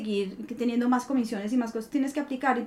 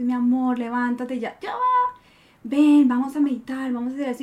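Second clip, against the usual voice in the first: loving wake-up voice; 4 dB louder than usual. Retold or imitated. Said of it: "me levanta y dice".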